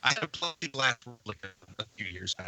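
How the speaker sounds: glitchy robotic bad connection; garbled like a breaking-up call. Real, not acted. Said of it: "You just turned into a super robot".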